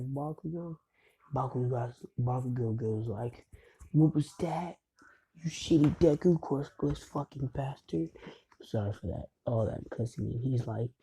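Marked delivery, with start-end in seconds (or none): 3.9-8.1 irate bully. Retold or imitated. Bakugo insults Deku.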